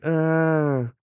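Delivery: high mock infant "ah"; short voiced baby wail, acted; imitated baby cry. Newborn Loki lying before his mother, imitated baby cry. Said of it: "the baby's like".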